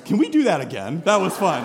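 lightly voiced excited kid; eager little boy. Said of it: "he pops right up and goes".

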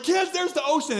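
put-on high, loud call to the kids; ta-da, there it is; excited announcement. Father calling out to his kids at the beach, excited.

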